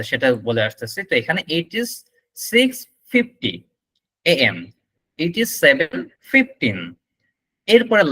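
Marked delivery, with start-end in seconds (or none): 1.6-4.6 model time reading. Shown as a demonstration. Teacher showing how to tell time, chunked demo. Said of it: "টাইমটা বলার সিস্টেমটা আমি আপনাকে দেখিয়ে দিই". 5.2-6.8 model time reading. Shown as a demonstration. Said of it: "টাইমটা বলার সিস্টেমটা আমি আপনাকে দেখিয়ে দিই".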